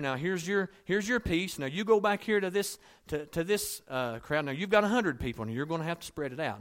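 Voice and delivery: mock foreman parcelling out crumbs; acted handout. Jesus handing each disciple a crumb, brisk and lively.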